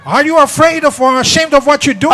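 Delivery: high loud laughing yell; mock shout. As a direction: shout back, half laughing. Wife shouting.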